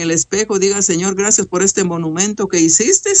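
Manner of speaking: high-pitched, urgent preaching; fervent exhortation. Acted. (exhortación ferviente)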